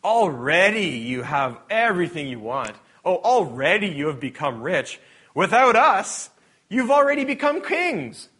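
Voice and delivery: biting sarcasm, swelling in volume; sarcastic Paul. Acted. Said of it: "another sarcastic bit from Paul".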